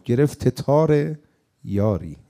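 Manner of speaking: گرفت تار یاری said slowly, split into گرفت، تار، یاری; slow, drawn-out retelling of the old man; old man's pun. Retold or imitated. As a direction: drag out گرفت تار یاری with a pause before یاری. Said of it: "اون میگه گرفت یاری".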